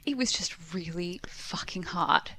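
a tight, unvoiced whisper, holding back tears; tearful whisper. Real, not acted. The speaker, near tears, whispers to her co-host how hard lockdown was. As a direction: force the words out through welling tears.

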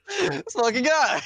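high, loud, drawn-out exclamation; mock elation. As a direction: cry it out in hammed-up delight, slowly. Acted reaction to moonshine offer.

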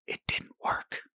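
whispered chirp to a beaten opponent; taunting whisper. Acted. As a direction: whisper it slyly, like a taunt in passing. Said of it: "skate past them and whisper".

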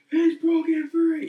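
high, loud, drawn-out shout; imitated cry of alarm from a ride; mock panicked shout.

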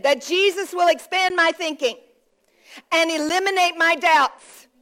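phrase by phrase, with a clear pause; slow it down so the translator can follow; slowed for translation. Real, not acted. Preacher repeats the declaration for the translator, slowed down. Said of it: "I'm gonna slow down a little bit for the translation".

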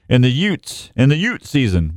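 youths said as Utes, no th at the end; Vinny-style Utes for youths; My Cousin Vinny yutes. Retold or imitated. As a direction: say Utes like yoots, dropping the th. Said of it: "What, what was that word?".

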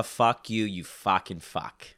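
thick Boston accent, slow drawn fucking. Shown as a demonstration. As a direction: tough Boston guy swearing. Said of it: "that's how I get into my Bostonian accent".

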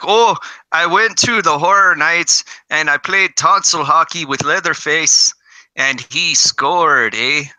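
lightly put-on Canadian accent; mock Canadian, drawn-out to the final eh. Co-host imitating Byron telling a hockey story, mock Canadian accent. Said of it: "I should do my Canadian voice".

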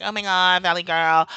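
lightly put-on California Valley Girl; a hint of Valley Girl accent. Mocking the California type, light Valley Girl accent. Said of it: "The California".

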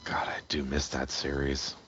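soft nostalgic whisper. Real, not acted. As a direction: whisper it fondly, under your breath. Fond aside about the old days.

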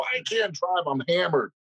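mock protest starting high; retold drunken protest. Drunk man protesting to the cop, high mock objection.

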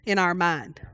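breathy unvoiced whisper of "in our mind". Preacher describing inner debate, whispering. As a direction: drop to a whisper.

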